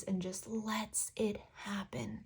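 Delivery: whispered. Real, not acted. Hushed point about letting go.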